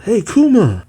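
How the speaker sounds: high-pitched hail without much volume; lightly acted call; mock calling out. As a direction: call after someone walking away, held back. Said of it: "someone calls out".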